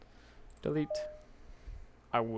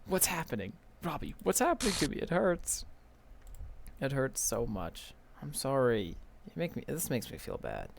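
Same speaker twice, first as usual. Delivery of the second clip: Monika pleading; 3 semitones higher than usual. Acted. Reads Monika's in-game lines.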